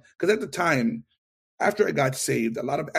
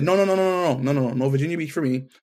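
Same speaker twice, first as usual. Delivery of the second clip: rapid, louder, higher string of no's; emphatic refusal; 3 semitones higher, 5 dB louder, faster than usual. Retold or imitated. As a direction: protest fast and hard, no way. Refusing the Virginia Beach posting.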